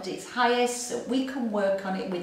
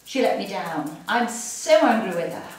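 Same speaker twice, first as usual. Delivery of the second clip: mild anger; 4 dB louder than usual. Shown as a demonstration. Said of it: "the eyebrow".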